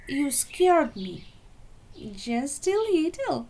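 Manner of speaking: loud, high complaint; indignant. Acted. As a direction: accuse her, loud and high. Lemon complains to Clementine.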